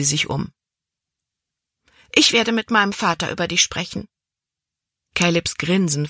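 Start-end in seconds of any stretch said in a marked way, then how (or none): 2.1-4.1 quick, pointed threat; threatening. Acted. Libby threatens to tell her father about Caleb. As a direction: fire off the threat fast and proud.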